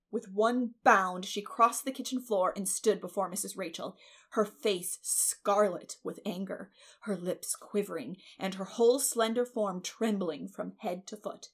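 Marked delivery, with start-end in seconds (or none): none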